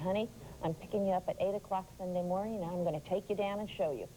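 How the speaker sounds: ordinary talk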